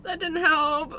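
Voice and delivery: soft, crying voice; teary. Real, not acted. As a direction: near tears from the burn. Crying after sip.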